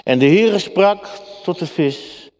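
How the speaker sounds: scripture reading. Acted. Preacher reads Jonah's prayer to the congregation, solemn reading.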